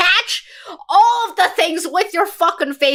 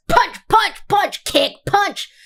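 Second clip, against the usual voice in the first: calling out punch noises a bit higher; mock punch sounds; 6 semitones higher, 3 dB louder, slower than usual. Narrating the fight, mouthing mock sound effects. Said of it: "the sound effects are just".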